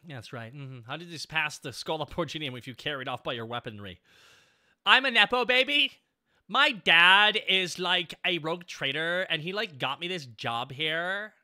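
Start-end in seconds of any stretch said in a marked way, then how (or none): 4.8-11.3 put-on whiny entitled rich kid; lightly voiced bratty heir; spoiled brat voice. Voicing bratty character.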